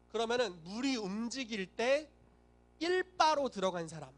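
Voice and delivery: ordinary talk, nothing marked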